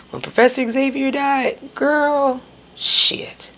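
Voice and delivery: drops to a whisper on the sad memory; breathy hush of remembered sorrow; hushed grief. Real, not acted. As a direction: whisper it like the loss still stings. Recalling a sad film death.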